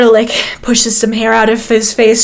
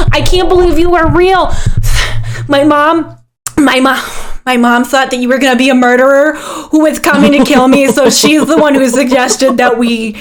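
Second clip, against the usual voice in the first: put-on excited young character; 2 semitones higher than usual. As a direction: gush with relief and delight. Game master voices excited Huck.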